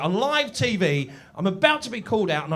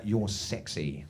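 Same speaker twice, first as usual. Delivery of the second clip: low, hushed "You're sexy"; soft flirty compliment; 14 semitones lower, 8 dB quieter, slower than usual. Retold or imitated. Wife softly telling her husband he's sexy. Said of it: "my wife said to me".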